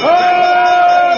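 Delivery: high, loud alarm cry; frantic high-pitched shout; panicked shouting. Acted. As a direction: yell it out in a flap. Panicked fire-drill calling with bell ringing.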